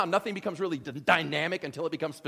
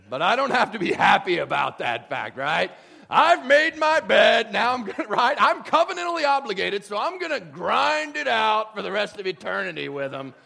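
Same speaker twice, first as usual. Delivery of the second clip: louder, exasperated grumble; hammed-up resentful God; mock grudging; 4 semitones higher, 9 dB louder than usual. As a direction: complain you're stuck with them forever. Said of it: "The image is not God going".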